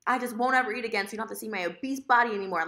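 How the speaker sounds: mildly hammed-up wounded accusation; self-mocking, exaggerated upset; dramatized angry outburst. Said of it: "I'm dramatize things".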